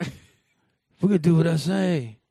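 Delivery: a hint of a bossy leader, slow and loud; lightly mock the stubborn leader; mock Rick laying down the law; bossy Rick Grimes.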